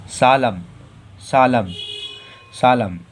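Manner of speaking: सालम said "saalam" with a silent N; model pronunciation. Shown as a demonstration. Teacher drills सालम for pupils to repeat. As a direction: repeat सालम three times, slowly. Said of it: "तो इसे क्या पढ़ेंगे?".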